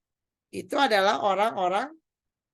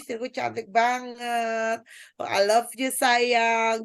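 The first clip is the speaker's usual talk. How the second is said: mock romantic praise; slower than usual. Shown as a demonstration. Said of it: "Tapi ibu mah perlu dipuji".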